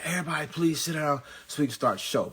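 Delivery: lightly voiced event announcer calling the room; loudspeaker announcer. Mock announcer asks the crowd to sit down for the show.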